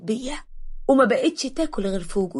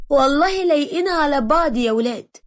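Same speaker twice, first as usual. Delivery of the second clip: higher, mocking tease; sarcastic teasing; 4 semitones higher than usual. Mother mocking Ibrahim and Hedia together, sarcastic. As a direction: tease the pair with a sneer in the voice. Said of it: "بتقولي بتريقة".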